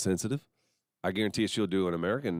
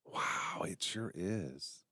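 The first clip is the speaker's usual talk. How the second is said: whispered awe; 6 dB quieter, much slower than usual. Acted. Mock awe at shirts.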